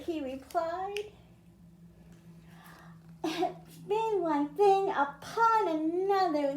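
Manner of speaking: lilting read-aloud, rhymes and all; storybook reading. A narrator's reading. Teacher reading a rhyming picture book to children, lilting read-aloud. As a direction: read it to a class of kids, rhyming.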